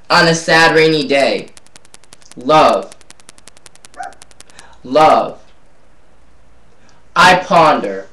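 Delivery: measured spoken-word recital with long pauses; slam poetry. Acted. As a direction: let each "love" land alone, falling. Recites own slam poem.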